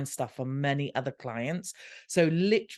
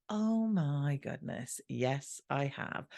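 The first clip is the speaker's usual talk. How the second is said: slow, softer dawning admission; stunned realization; 5 dB quieter, much slower than usual. Retold or imitated. Realizing she has already failed, slow soft stunned admission. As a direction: let it land slowly, winded.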